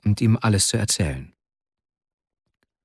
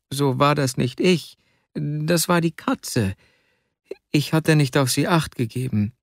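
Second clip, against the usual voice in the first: a lightly voiced servant woman rambling on; a hint of a fussy maid making excuses; chattering old servant; 2 semitones higher than usual. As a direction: babble on, eager to excuse yourself.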